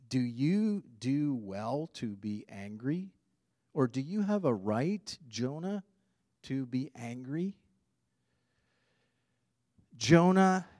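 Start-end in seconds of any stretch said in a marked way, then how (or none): 0.1-7.6 gentle divine question. Acted. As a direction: ask it tenderly, like a patient father. God's gentle question, hushed.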